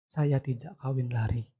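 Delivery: mildly rueful, soft and wistful on each wish; understated guilty lament; retold regret. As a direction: voice her remorse with restraint. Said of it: "Dia kembali merasa bersalah".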